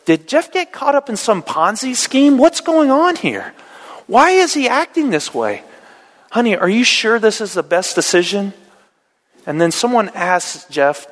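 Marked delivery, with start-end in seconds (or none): 0.1-8.5 higher, nosy neighbor voice; gossiping neighbor. Acted. Neighbor at the yard sale gossiping about Jeff, higher. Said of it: "one neighbor goes".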